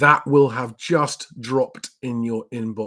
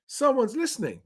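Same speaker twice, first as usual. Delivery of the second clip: very high, lighter delight; pleased, high-pitched aside; 10 semitones higher than usual. Real, not acted. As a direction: echo it high without pushing the volume. Repeats the delighted reaction more softly.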